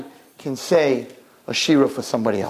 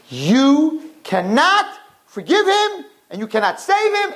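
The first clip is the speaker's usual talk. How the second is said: pleading; 11 semitones higher, slower than usual. Acted. Angels pleading against Menashe.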